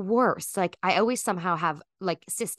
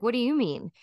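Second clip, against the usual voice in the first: pointed retort; 5 semitones higher than usual. Retold or imitated. Friend answering her baffled question with a pointed retort. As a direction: throw it back as a pointed question. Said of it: "And she's like".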